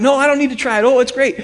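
high, loud delighted gushing; excited. Retold or imitated. Retelling his excited pitch to the robbers. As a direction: rave about it like a thrilled buyer.

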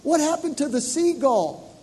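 put-on child's voice asking; little boy asking. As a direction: ask it like a puzzled small son. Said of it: "and he said".

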